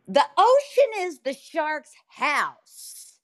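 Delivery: high, slow, booming Southern church lady; Southern lady impression. Imitating a Southern lady telling the world the ocean is the shark's house. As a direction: preach it like a big boisterous Southern woman. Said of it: "this big Southern lady".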